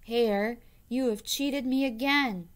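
scowling bear. Acted.

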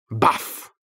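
sudden loud startling burst; short loud boo from behind; shouted boo. A narrator's reading. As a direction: jump out and scare someone. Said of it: "křiknul mu najednou někdo".

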